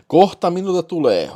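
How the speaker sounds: loud, high climactic shout; huutaen. A narrator's reading. (huutaen kovaa ja korkealla)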